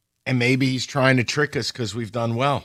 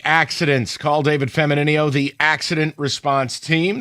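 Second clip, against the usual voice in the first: measured radio sponsor read. Acted. Host pitching an accident lawyer to listeners, ad read. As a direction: read it as a host's live commercial.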